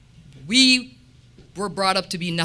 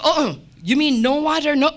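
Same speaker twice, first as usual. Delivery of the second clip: higher, louder coworker voice, shocked; mock disbelief; 6 semitones higher, 4 dB louder than usual. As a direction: play the stunned coworker.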